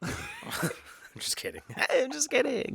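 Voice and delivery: giggling through the words; laughing. Real, not acted. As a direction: laugh while taking it back. Laughing after joke.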